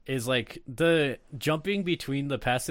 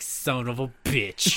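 slow disbelieving curse; slower than usual. Acted. Actor reacting to watching film.

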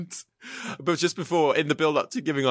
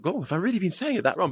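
mock self-doubt; 6 semitones higher, faster than usual. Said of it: "And I thought".

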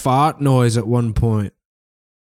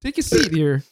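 higher put-on Canadian girl; 4 semitones higher than usual. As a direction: lightly play a Canadian girl. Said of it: "I'll play a Canadian girl".

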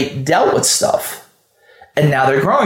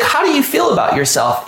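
pointed challenge; 8 semitones higher than usual. Retold or imitated. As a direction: call him out on it. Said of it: "I was like".

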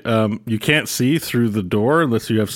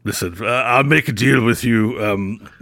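put-on sly old wizard. Archie offers deal.

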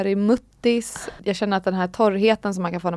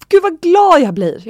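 high, loud, drawn-out mock delight; delighted exclamation; 9 semitones higher, 8 dB louder, slower than usual. Doctor admires well-healed stitches, imitated as loudly delighted. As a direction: gush it slowly, pitched right up.

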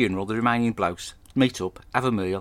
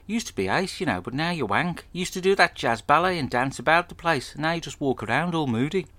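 higher, sing-song mocking mate; lightly voiced friend ribbing him; teasing mate; 5 semitones higher than usual. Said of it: "One of his mates says".

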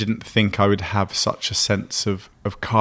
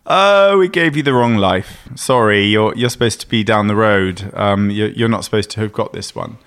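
knock-at-the-door official; 3 dB louder than usual. Retold or imitated. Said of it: "someone's gonna knock at the door and go".

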